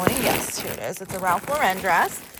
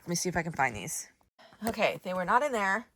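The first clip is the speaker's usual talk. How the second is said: out of breath; 3 dB quieter, faster than usual. Real, not acted. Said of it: "Whew, I'm out of breath now".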